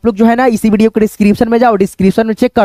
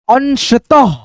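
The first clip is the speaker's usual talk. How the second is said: अंशतः drawn out as अन, श, तः; careful teaching version of अंशतः; piece-by-piece reading; 3 semitones higher, much slower than usual. Shown as a demonstration. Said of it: "ऐसे करके".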